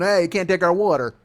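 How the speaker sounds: lightly put-on Arizona hick accent; mock Arizona yokel accent; bad Arizona accent. Dumb leather-clad guard warning Californians, bad Arizona accent. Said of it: "why they talk like that".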